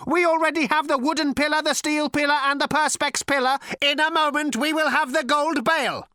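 high, cold, lifeless ancient robot voice; cold cultured robot rasp. A narrator's reading. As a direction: speak like a sleek machine ten billion years old. Robot lists the pillars.

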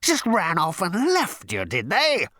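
slow, high, loud machine outrage; thundering. A narrator's reading. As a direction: thunder it, stretching the words. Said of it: "the machine thundered".

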